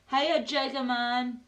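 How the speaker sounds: loud, high, stretched-out hail; big drawn-out welcome; excited greeting. Real, not acted. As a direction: call out the name slowly, drawing it out. Hailing a viewer who arrives.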